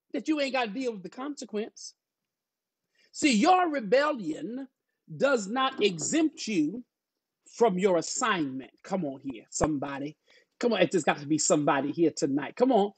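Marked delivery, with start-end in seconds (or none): 3.1-8.7 slow, deliberate sermon cadence; preaching. Real, not acted. Pastor telling church rebellion is no exemption, slow preaching. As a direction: preach it in weighty, separated phrases.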